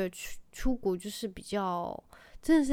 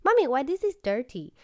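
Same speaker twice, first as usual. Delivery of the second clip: put-on child's deflecting question; 5 semitones higher, 7 dB louder than usual. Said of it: "他说".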